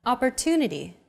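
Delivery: Opportunity with a longer TU, the other syllables shorter; stress on TU. Shown as a demonstration. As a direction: stretch the third syllable of Opportunity. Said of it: "pronounced longer than all other syllables".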